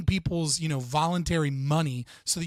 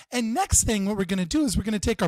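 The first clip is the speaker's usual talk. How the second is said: lightly mimicked Italian TV cook, higher and a bit louder; mock the Food Network chef, sing-song; a hint of an Italian cooking-show host; 5 semitones higher, 3 dB louder than usual. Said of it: "she's like".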